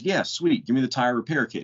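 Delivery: hammed-up delight at finally getting help; pleased customer. Customer with flat tire accepts the kit, mock-happy high voice. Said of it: "And the guy goes".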